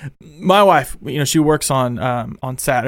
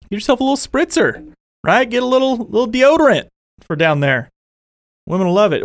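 higher-pitched, casual sponsor plug; upbeat live promo pitch; playful ad read; 5 semitones higher than usual. Real, not acted. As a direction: sell it with a cheeky lift.

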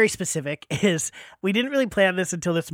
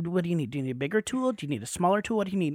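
hushed assistant; 7 dB quieter, faster than usual. Retold or imitated. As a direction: voice a helper asking discreetly mid-surgery. Assistant quietly offering dentist tools.

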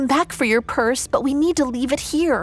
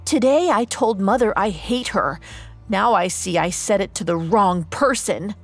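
shouting back; 6 semitones higher than usual. Acted. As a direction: yell it back at him, then let it sink. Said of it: "Gisela shouted back".

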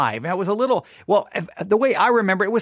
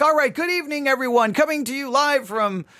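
retold live intro; 5 semitones higher than usual. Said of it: "I turned on the microphone and I'm like".

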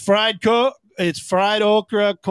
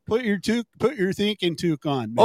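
put-on Canadian accent. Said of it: "Great White North".

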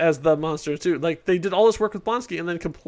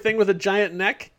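normal talking voice

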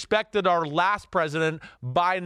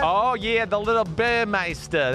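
put-on higher-pitched Jersey-accented name; 4 semitones higher than usual. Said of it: "without saying it in that accent".

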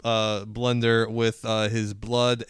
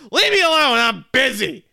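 much higher, louder imitation of a brushing-off boss; dismissive boss; 11 semitones higher, 9 dB louder than usual. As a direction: snap it off like an annoyed boss. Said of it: "my boss just looks at me and goes".

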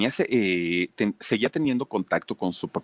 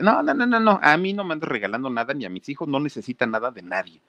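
mock furious refusal, fading at end; mother refusing; 6 semitones higher than usual. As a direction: shut the stranger down hard.

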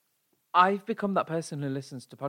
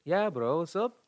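gym bro. Acted. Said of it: "Why are you talking like a bro for?".

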